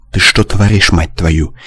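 plain reading voice

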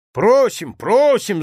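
loud, high cheering call; shouting. A narrator's reading. Guest cheers the speaker at the wedding table, shouting. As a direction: cheer her on at full voice. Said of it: "закричал Мечислав Фелицианович".

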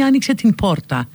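αργό «την πόρτα» με άηχο π μετά το ν; κράτα σκέτο π στο «πόρτα»; νι χωριστά από πι. Shown as a demonstration. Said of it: "άμα μείνει". («την πόρτα» χωρίς ένωση των ήχων)

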